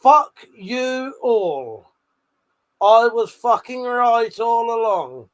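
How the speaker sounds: slow, drawn-out victorious jeer; slow triumphant taunt at the chat; triumphant gloat. Real, not acted. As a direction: rub it in, savouring every word. Gloating after being proved right.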